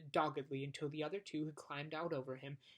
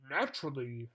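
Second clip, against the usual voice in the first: louder booming giant; 2 semitones lower, 7 dB louder than usual. Acted. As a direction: boom it like a giant calming down. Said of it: "in a more normal voice".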